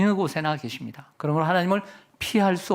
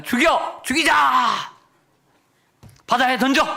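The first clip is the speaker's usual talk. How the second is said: angry mob shout; 7 semitones higher, 4 dB louder than usual. Retold or imitated. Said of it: "보통 사람들 같으면 어떻게 나가냐면".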